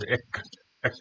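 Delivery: "액" said alone as the opening vowel sound of X; pronunciation demo. Shown as a demonstration. Teacher showing learners how X starts, "액" sounded out alone. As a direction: isolate "액", the first syllable of X. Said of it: "어떻게 발음하나요".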